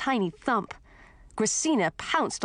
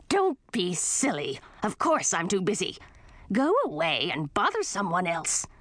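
grumpy witch aunt. Acted. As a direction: snap like a grouchy old witch. Voices grumpy aunt Gracina.

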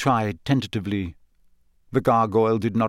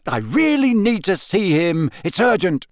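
urgent; 7 semitones higher, 3 dB louder than usual. A narrator's reading. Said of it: "he said angrily".

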